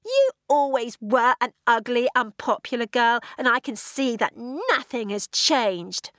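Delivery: put-on high, spiteful teenage sneer; furious hiss. A narrator's reading. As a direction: sneer at her clothes and hair. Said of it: "The voice was a furious hiss".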